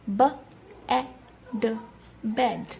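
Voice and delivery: each sound of بیڈ said apart, then blended; slow segmenting before the whole word; sounding out bed. Shown as a demonstration. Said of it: "آپ نے note کیا کہ ان تینوں words میں". (بیڈ کو ٹکڑوں میں بول کر جوڑنا)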